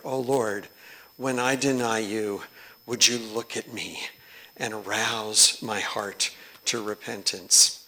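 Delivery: hushed devout prayer; quiet prayer. Acted. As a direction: pray it gently. Reads prayer softly.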